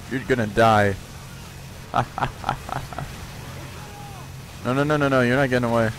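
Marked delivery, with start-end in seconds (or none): 1.0-4.6 long, soft, unvoiced laugh. Real, not acted. Gamer laughing after telling a target it will die, soft laugh. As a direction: laugh softly and keep it going.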